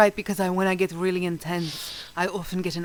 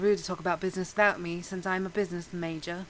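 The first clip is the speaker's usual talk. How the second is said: posh British; 3 dB quieter, faster than usual. Acted. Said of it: "you're not British, stop flaunting it".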